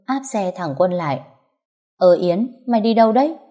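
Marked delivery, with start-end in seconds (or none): 2.0-3.4 a startled, louder call of her name. Acted. Husband caught by his wife, startled and louder. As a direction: caught off guard, voice jumps up.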